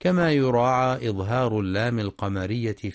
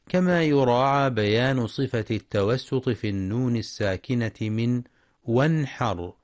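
usual speaking voice

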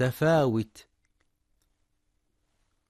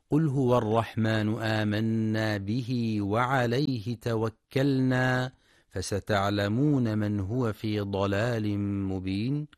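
Quran recitation. Acted. Teacher recites a verse for listeners, measured chant.

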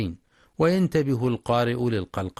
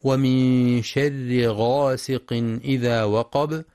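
slow tajweed recitation; Quran recitation; slower than usual. Shown as a demonstration. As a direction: recite slowly with clear letters. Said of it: "ويراعى في قوله تعالى". (تلاوة مجودة متأنية)

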